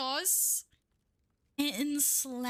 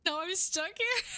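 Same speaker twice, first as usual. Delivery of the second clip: mock crying; 5 semitones higher than usual. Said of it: "meaning I'ma cry later".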